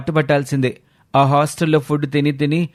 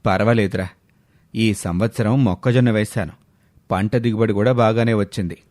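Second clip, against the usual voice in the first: lower, settled father voice; a tired farmer father talking about his crop, low; village father; 4 semitones lower than usual. Acted. Father telling his son about the maize harvest, lower and calm.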